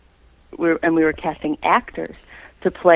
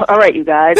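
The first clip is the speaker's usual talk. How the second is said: Moe from the Three Stooges; 6 dB louder than usual. Retold or imitated. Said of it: "one of those Moe from the Three Stooges".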